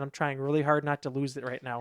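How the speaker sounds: low, soft, faintly robotic reply; robot-like restraint. Retold or imitated. Answering why he talks like a robot, restrained. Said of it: "Why are you talking like a robot?".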